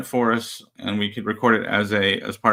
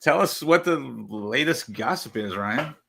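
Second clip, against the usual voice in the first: announcer voice; 5 semitones higher, 6 dB louder, slower than usual. Acted. Host's playful segment introduction.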